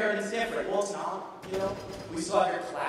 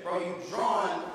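bro voice; 3 dB quieter, slower than usual. Retold or imitated. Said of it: "guys from Harridan talk".

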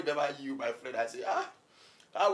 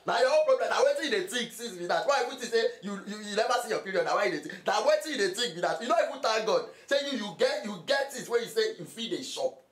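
heated, higher-pitched telling-off; indignant scolding; 4 semitones higher than usual. Acted. Friend berates friend for complaining about his own problem, indignant. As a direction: scold him in exasperation. Acted quarrel over money trouble.

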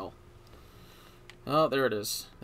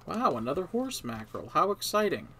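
sarcastic excitement; 4 semitones higher, 3 dB louder than usual. Pretend. Mock delight at a worthless catch.

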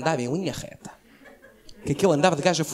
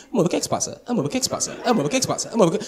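put-on nagging girlfriend; 4 semitones higher, faster than usual. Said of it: "técnica de koala".

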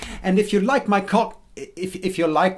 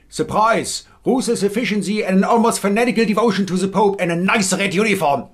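Hessian accent. Shown as a demonstration. Sketch of the Inquisition bursting in, in Hessian accent. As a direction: bark the Spanish Inquisition lines in a Hessian accent. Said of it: "this is what a Hessian accent would sound like in English".

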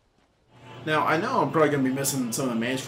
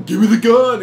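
loud, high-pitched demand; re-enacted shouted order; retold shout; 11 semitones higher, 16 dB louder than usual. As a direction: yell it as in the heat of the story. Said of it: "I'm shouting at him".

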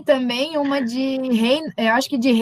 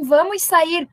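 imitando alguém tranquilo, sem gritar; super calmo; 4 semitones higher, slower than usual. Retold or imitated. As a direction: say it unhurried and unalarmed, as a retold quote. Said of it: "super calmo". (super calmo, sem alarme)

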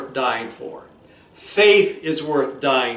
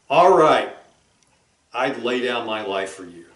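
a hint of weary giving in; worn out husband; 4 semitones lower than usual. Husband gives in to wife, worn out and weary. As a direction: sigh it out, giving up. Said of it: "He's worn out by the conversation".

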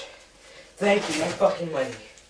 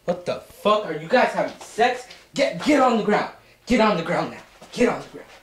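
shouted surrender demands; 5 semitones higher, 3 dB louder than usual. Acted. Bursting in on hostages.

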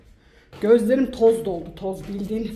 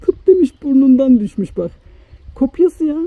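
louder, higher, delighted disbelief; cracking up and shouting at the likeness; loud amused exclamation; 5 semitones higher, 11 dB louder than usual. Real, not acted. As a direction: shout it out, amazed and laughing. Laughing at the lookalike.

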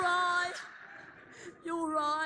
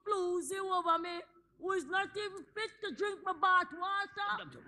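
tearful rant. Acted.

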